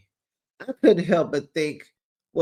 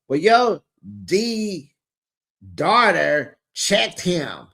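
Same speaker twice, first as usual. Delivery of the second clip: voicing Nelle; slower than usual.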